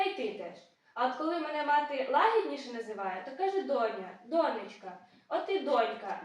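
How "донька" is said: донька stressed on ДО; stress on first syllable. Shown as a demonstration. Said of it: "наголос на першому складі". (наголос на першому складі: «донька»)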